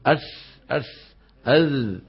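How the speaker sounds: "أس، أذ" with tongue tip on the gum ridge. Shown as a demonstration. Teacher imitating another teacher's method, "أس، أذ" from the gums. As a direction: turn th sounds of "أس، أذ" towards s. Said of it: "يحطوا طرف لسانهم على اللثة".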